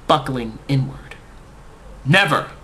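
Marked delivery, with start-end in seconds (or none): 2.0-2.5 loud, higher battle-cry refusal; warrior scream. A narrator's reading. Man hurling his refusal before the throw, loud warrior yell. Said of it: "I screamed with the force of a Nordic warrior".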